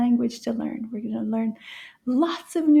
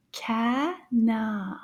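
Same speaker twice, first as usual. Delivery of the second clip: CANARD slowly split, with a gap between syllables. Shown as a demonstration. Teacher repeating "canard" for children, split by syllable. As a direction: say "canard" as two separate syllables. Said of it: "let's repeat that one more time".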